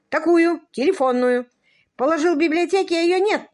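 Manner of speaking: high, loud, hurried complaint; agitated. A narrator's reading. Earl has lost his phone book, loud and flustered. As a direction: rattle it out in a fluster.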